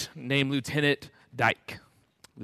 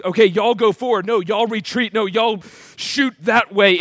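higher-pitched, flustered orders; mock panicked babbling; 4 semitones higher, 4 dB louder than usual. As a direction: imitate a leader losing his nerve. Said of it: "starts babbling out commands".

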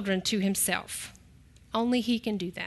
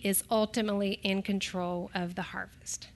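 whisper; 2 semitones lower, 6 dB quieter than usual. Real, not acted.

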